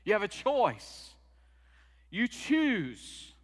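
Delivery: quoting the movie pastor with rising emphasis; pastor's advice. Retold or imitated. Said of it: "he said".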